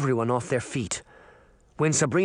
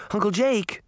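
high, protesting call; girl's upset cry, pitched up; dismayed cry; 8 semitones higher than usual. A narrator's reading. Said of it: "Sabrina cried".

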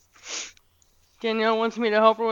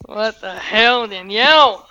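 yelling; 4 dB louder, slower than usual. Real, not acted. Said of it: "Why are you yelling like a crazy person?".

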